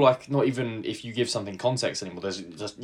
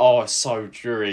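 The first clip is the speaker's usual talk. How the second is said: mock dreary moan; 4 dB louder than usual. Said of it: "I'm like".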